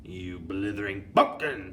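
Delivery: loud scornful screech; screeched insult. Acted. Grand High Witch screeching at the foolish witch. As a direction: scream abuse at the fool. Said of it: "screeched the Grand High Witch".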